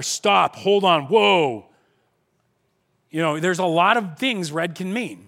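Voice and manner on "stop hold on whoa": mock alarm. Acting out reaction to red.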